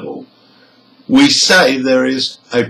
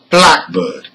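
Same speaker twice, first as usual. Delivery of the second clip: "blackbird" with BLACK strong, bird unstressed; stress on BLACK; 2 semitones higher than usual. Shown as a demonstration. Teacher gives a second compound noun, "blackbird" stressed on BLACK. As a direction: punch the first part of "blackbird". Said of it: "Black is stressed".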